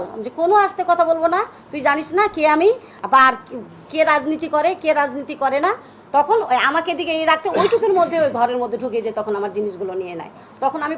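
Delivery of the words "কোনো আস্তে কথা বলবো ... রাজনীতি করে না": retelling her loud, defiant retort to the intruders; raised voice. Retold or imitated. To the men raiding her flat, a retold loud defiant answer. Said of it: "এই উঁচু গলায় কথা বলবি না".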